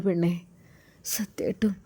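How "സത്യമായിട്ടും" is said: softly whispered; a hushed aside. Acted. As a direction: breathe it as a confidence. Husband confides to wife.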